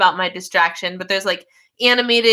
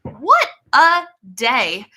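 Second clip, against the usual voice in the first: slow, stretched "What a day"; weary, elongated "What a day"; drawn-out sigh; 2 semitones higher, much slower than usual. Real, not acted. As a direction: let the repeat linger, very slowly. Repeats it, drawn out.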